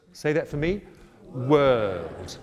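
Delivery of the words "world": "World" said with no R sound, Kiwi style. Shown as a demonstration. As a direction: drop the R in "World". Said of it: "with no R in it".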